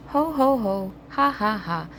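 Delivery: mock laughter; lazy pigs jeering as they dance off; laughing. A narrator's reading. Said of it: "laughed the two lazy little pigs".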